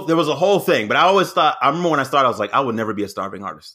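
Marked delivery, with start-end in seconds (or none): 2.5-3.7 quoting his younger self. Retold or imitated. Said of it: "This is something I said".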